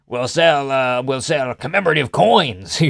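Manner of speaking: slow, light Texan twang as Trump; mock Texan pitch, dragged out; Texan Trump impression. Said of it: "why he became Texan".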